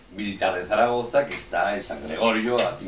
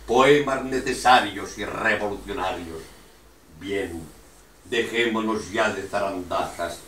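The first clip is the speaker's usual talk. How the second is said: emphatic, measured verse with punched stresses; loud beats on the key words; poem recitation; 4 dB louder than usual. Acted. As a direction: declaim the lines like a rousing manifesto.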